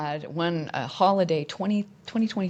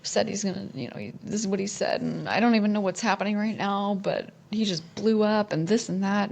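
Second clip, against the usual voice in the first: panicked phone call; 4 semitones higher than usual. Retold or imitated. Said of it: "and I'm just like".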